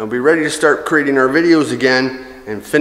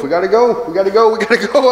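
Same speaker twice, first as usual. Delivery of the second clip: growing urgency; 5 semitones higher, faster than usual. Real, not acted. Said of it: "It's all gotta go".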